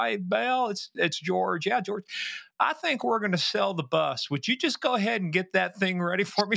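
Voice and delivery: lightly imitated country star; a casual hint of a singer's impersonation; a country singer. Radio host prank-calling the bus driver, lightly imitated. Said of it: "perfect imitation of a country singer".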